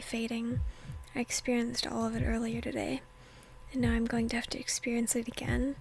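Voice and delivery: hushed whisper narrating the scene; whispered reading. Acted. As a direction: breathe the story out in a whisper.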